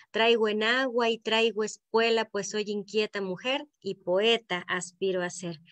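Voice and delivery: measured verse recital, pausing between lines; reciting a décima. Shown as a demonstration. Poet introduces herself to workshop with her décima, reciting. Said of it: "Voy a decir mi décima de presentación".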